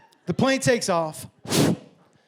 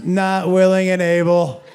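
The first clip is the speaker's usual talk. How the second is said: slow, loud, drawn-out words; loud declaration; 3 semitones lower, 7 dB louder, slower than usual. Retold or imitated. Passenger leaning over from across the exit row, loud drawn-out declaration. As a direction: announce it with heavy, stretched emphasis.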